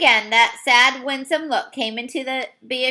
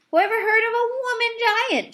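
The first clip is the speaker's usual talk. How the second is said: shouting giant; 10 semitones higher than usual. Acted. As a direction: shout it in scorn. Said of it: "Shouted the B F G".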